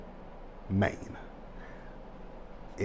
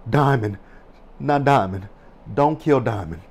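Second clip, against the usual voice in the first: louder, insistent mock pleading; dismayed plea; 4 dB louder than usual. Reliving shock at Diamond being stabbed.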